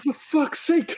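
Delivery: high-pitched exasperated outburst; retold exasperation. Husband fed up with his wife's questions, exasperated. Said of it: "I was like".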